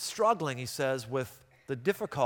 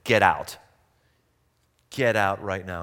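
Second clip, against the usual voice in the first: retold angry order; 8 semitones lower than usual. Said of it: "His mother all of a sudden got very angry".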